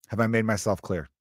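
"Have I made myself clear" at an even everyday pace; mock stern check. Dad checking his bratty kid heard the warning, mock stern.

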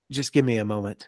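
soft, hushed Jude Law doing a dramatic pause; Jude Law impression. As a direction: hush it like a brooding actor asking for time. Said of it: "really just being like".

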